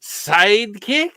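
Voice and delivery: put-on Bela Lugosi Slavic accent; bad Eastern European drawl; terrible Slavic accent. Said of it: "I'm doing a terrible Slavic accent".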